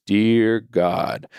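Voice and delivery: measured, drawn-out "Dear God"; set prayer opening. Shown as a demonstration. Dad starting his son's nightly prayer, measured and deliberate. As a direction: open a bedtime prayer deliberately. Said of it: "I say it just like that".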